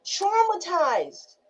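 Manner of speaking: slow, drawn-out single word; heavy. Real, not acted. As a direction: let the word land heavily. Slow summing word after pause.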